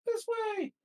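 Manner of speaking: high, loud call to refugees. Acted. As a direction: call the crowd this way. Tom calls refugees this way.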